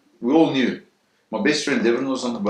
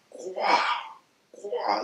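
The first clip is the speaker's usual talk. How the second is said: airy "kwah" crash noises; imitated smashing noise; 9 semitones higher, 5 dB quieter than usual. Telling what was heard as the shark attacked, imitated smashing. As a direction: mimic the crashing with two short bursts. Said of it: "all he hears is like".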